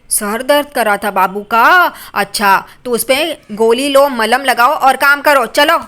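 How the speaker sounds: slow, loud scolding of her husband; wife scolds lazy husband, slow and loud; scolding yell. Acted. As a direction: bark the orders slowly at him. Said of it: "वो उस पे चिल्लाती है".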